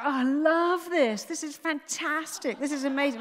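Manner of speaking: high, loud forced delight; enthusiastic shouting. Retold or imitated. Mother on a hated ride tricking her brain, gleeful shouting. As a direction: shout it out as if loving every second. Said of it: "I started shouting out".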